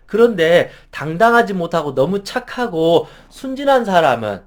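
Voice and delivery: ordinary talk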